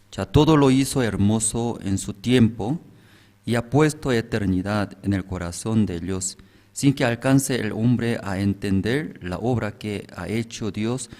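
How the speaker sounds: measured, solemn reading of a Bible verse; scripture reading. Acted. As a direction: read the verse aloud to the congregation with gravity. Reads the Bible passage. (lectura bíblica solemne y pausada)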